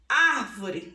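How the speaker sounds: "Árvore" with a forceful opening Ár; teacher's strong first beat on "Árvore"; stressed first syllable. Shown as a demonstration. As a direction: hit the Ár of "Árvore", then fall away. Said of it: "a sílaba aqui é antepenúltimo".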